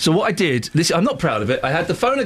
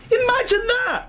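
much higher, incredulous exclamation; mock disbelief. Host mocks a company with no phone number, incredulous. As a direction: act out outraged disbelief. Outraged at the absurd phone reply.

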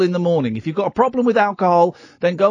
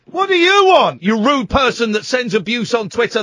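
angry. Real, not acted. Host confronting abusive caller.

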